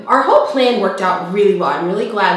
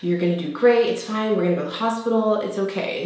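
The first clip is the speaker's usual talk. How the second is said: sweet, reassuring; 2 semitones higher than usual. Retold or imitated. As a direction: retell it tenderly, as if soothing someone. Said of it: "he was so sweet".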